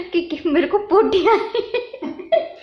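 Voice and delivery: high, slowed words through real laughter; giggling. Real, not acted. Admitting to viewers how scared she got, laughing helplessly. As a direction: crack up while confessing. Confesses fright while giggling.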